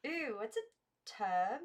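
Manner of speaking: wide-eyed innocent asking; high childlike wonder; curious girls. A narrator's reading. Girls ask about tub.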